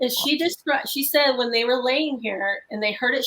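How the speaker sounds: normal talking voice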